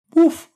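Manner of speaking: sharp high imitated woof; dog bark. Timmy the dog butting into the Zoom call, loud bark. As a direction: bark like a small eager dog.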